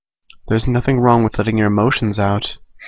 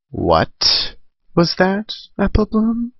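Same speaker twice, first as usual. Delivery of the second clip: surprised; 10 semitones higher, much slower than usual. Acted. Twilight reacts in surprise.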